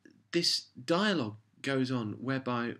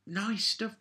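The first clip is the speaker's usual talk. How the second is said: sarcastic whisper; 11 semitones higher than usual. Real, not acted. Sarcastic aside.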